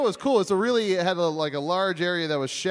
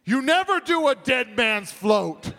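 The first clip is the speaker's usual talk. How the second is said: movie trailer voice; 7 semitones higher, slower than usual. Retold or imitated. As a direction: boom it out like a trailer. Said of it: "in the most epic voice".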